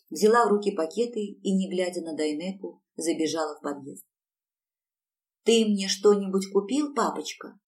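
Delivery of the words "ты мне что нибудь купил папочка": put-on whining child. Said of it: "конючила Юлечка".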